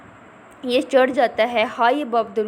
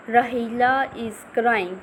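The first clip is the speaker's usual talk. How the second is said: slow reading aloud; much slower than usual. Shown as a demonstration. Teacher reads text slowly.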